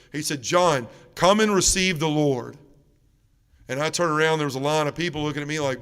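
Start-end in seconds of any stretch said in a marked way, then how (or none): 0.4-2.6 slow, firm summons, as retold; insistent priest. Priest calls a reluctant man up to communion, insistent. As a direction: call him up deliberately, word by word.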